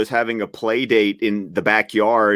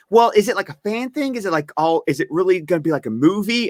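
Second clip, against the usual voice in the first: imitated questioner; 6 semitones higher, faster than usual. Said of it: "'cause she was like".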